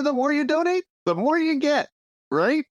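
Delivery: a hint of a hard-sell huckster; mock advertising pitch. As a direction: sell heaven like a late-night ad. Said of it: "a little advertising here".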